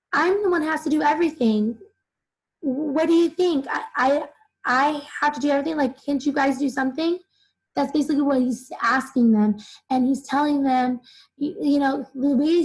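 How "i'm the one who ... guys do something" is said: mock upset, pitched a little up; lightly acted exasperated complaint of the overworked one; Templeton. Teacher voices Templeton asking the others for help, mildly exasperated. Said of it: "Again, he's upset".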